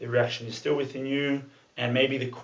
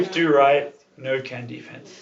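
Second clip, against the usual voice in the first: mock broken-English movie-mentor accent; 6 dB louder, slower than usual. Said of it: "I was gonna do an accent".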